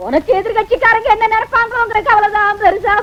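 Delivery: ordinary talk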